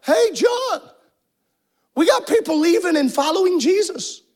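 high, urgent call to John; alarmed call. Retold or imitated. Disciples running to John, urgent high call. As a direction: shout the news to John, pitched high. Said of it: "they ran and they're like".

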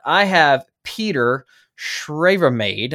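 slow, hammed-up Australian accent on the guest's name; a playful stab at an Australian accent, drawn out; mock Australian accent. Host introducing guest in a mock Australian accent. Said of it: "with my best Australian accent".

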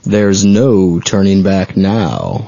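low, slow ghost host line; slow spooky menace. Acted. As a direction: drag it out like a haunted house host. Spooky Haunted Mansion tease.

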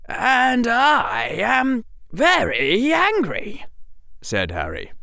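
put-on a boy forcing himself to rage; hammed-up angry boy; mock anger. Harry acts angry.

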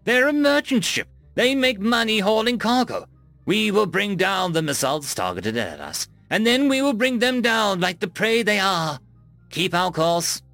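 captain berating a frightened officer in rage; enraged. Acted. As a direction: tear into the fool for doubting. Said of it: "Brill hissed enraged".

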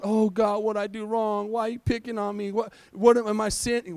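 lightly whined complaint to God; mock whining. Preacher acting out a believer questioning God, mildly whining. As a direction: imitate a self-pitying believer. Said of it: "whining and complaining and going".

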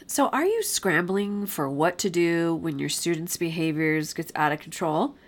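stuffy nose from a cold; talking through a blocked nose; nasal voice. Real, not acted. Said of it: "I apologize for my nasally voice".

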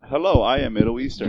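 mock Middle Eastern accent. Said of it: "share with us your Middle Eastern accent".

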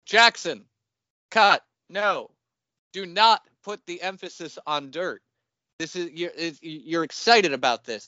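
director stopping an actor who keeps getting it wrong; retold exasperated director. Director scolding actor in retold rehearsal.

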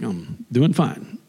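put-on slow, low-key American accent; reluctant short answer, American accent. Customer answering the chirpy teller curtly, American accent. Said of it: "I flip into an American accent".

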